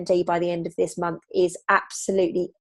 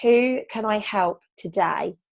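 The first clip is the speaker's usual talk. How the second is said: calm intention; slower than usual. Shown as a demonstration. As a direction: offer it gently and slowly.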